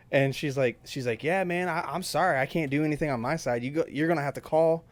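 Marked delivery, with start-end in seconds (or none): 1.2-4.8 lightly imitated, higher casual apology; a touch of unhelpful manager; apologetic slack manager. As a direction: brush off the customer with a mock sorry.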